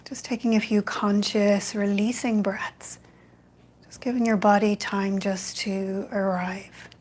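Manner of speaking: calm, even meditation guidance with long pauses; guided meditation. Real, not acted. Yoga teacher guiding an online evening class into loving kindness, meditative. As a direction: ease them into stillness, phrase by unhurried phrase.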